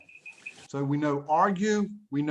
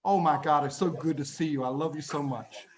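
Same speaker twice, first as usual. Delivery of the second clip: tender; 3 semitones lower than usual. Retold or imitated. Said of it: "he just stops and he looks at me and goes".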